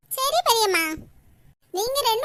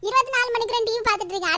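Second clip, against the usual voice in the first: fast, mocking echo of the grandmother's line; mocking imitation; faster than usual. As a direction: throw her own nag back at her, quickly. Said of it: "உன் மோளை இப்படி தான் கத்திட்டு இருப்பா". (பாட்டியை கேலியாக பின்பற்றி வேகமாக)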